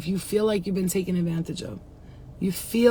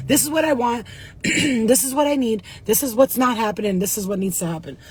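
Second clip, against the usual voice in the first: louder, firm and insistent; firm demand; 2 semitones higher, 3 dB louder than usual. Retold or imitated. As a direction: lay out demands firmly. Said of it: "deep talk with my spirit guides".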